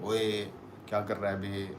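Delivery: lightly imitated Haryanvi Jat accent; a hint of Delhi Haryanvi accent. Shown as a demonstration. Demonstrating the accent Delhi people have, lightly imitated Haryanvi. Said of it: "the Haryanvi Jat wala accent".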